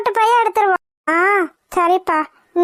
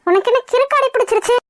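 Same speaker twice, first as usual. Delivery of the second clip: high-pitched, exasperated telling-off; exasperated scolding; 4 semitones higher than usual. Acted. Acted quarrel, scolding Jothi.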